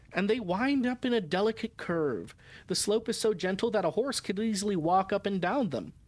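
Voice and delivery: measured, clearly phrased audiobook reading; story narration. A narrator's reading. Woman's journal describing the harbor and old men, story narration. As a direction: read the journal aloud with lively, lilting phrasing. Reads the novel aloud.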